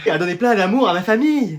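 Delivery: sugary show of motherly love; honeyed phone voice. Acted. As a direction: play the loving mother for the caller. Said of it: "t'as une voix toute mielleuse". (voix mielleuse au téléphone)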